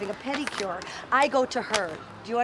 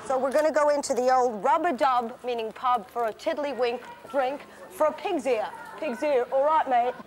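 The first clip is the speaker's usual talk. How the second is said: Cockney. Pretend. Slips into Cockney rhyming slang.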